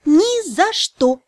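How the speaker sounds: slow, each syllable separate. Acted. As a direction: spell it out in syllables. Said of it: "по слогам ответила я".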